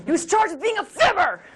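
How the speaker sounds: mock news read; silly retake. Shown as a demonstration. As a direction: redo the report as a playful gag. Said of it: "Can we do it again?".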